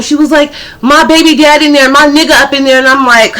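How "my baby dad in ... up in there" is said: imitated yelling girl, high and quick; higher, fast mock yell; retold yelling. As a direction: fire back like an indignant girlfriend. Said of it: "he must have heard her yelling".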